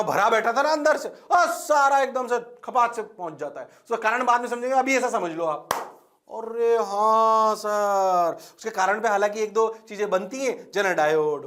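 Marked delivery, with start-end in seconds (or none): 6.3-8.4 long-drawn, louder student agreement; mock student reply. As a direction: drag it out like an eager class. (छात्रों जैसा लंबा खिंचा जवाब)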